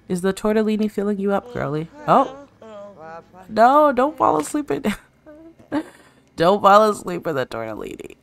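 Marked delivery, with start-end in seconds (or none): 2.1-2.5 sudden high, loud oh; real startled cry. Real, not acted. Sim falls asleep eating. 3.5-8.2 high, loud pleading no through laughter; real amused alarm; laughing protest. Real, not acted. Sim falls asleep eating.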